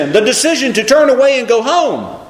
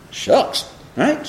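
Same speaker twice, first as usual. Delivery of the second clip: whispered; 5 semitones higher, 5 dB quieter than usual. Acted. Stressing the corn shucks.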